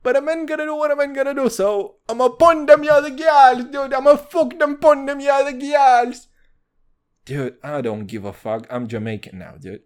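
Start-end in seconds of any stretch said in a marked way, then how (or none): 0.0-6.3 high, loud, fast mock patois; hammed-up heartfelt dancehall delivery; imitating a dancehall singer. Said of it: "heartfelt shit that he just gotta drop".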